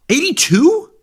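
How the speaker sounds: high squeaky disbelieving question; can't believe the age he just heard; shocked disbelief. Real, not acted. Cohost hears the skier is eighty-two, gasps in shock.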